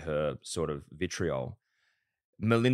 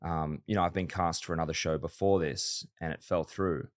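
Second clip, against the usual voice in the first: low, soft mock-serious retelling; underplay the boast, taking the piss; deadpan sarcasm; 4 semitones lower, 5 dB quieter than usual. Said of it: "obviously it was sarcastic".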